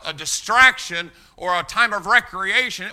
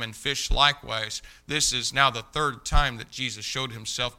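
measured, reverent Bible reading; scripture reading; 3 semitones lower than usual. Acted. Preacher reading John to the congregation, solemn and measured.

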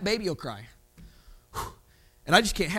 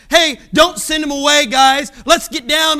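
voicing Jesus calling out loudly to the disciples; louder preacher's call; 5 dB louder than usual. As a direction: raise your voice as if calling across a crowd.

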